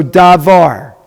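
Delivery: "davar" drawn out slowly, both syllables full; slow model word. Shown as a demonstration. Teacher modelling Hebrew word for class, slow and careful. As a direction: spell it out with your voice for learners. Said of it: "Davar is correct".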